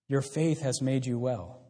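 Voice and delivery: slow, gentle words of Jesus; gentle quoted blessing. Acted. Preacher voicing Jesus's blessing to the woman, slow and gentle. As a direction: lay it on her slowly, with care.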